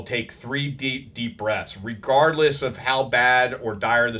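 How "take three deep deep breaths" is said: slow and soft, stretching each word; slow, calm advice. Shown as a demonstration. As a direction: breathe it out slowly, like calming someone. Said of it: "that's why I always tell people".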